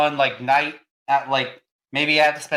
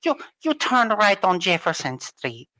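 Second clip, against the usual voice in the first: gps voice; 3 semitones higher than usual. Pretend. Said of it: "that's your G P S voice".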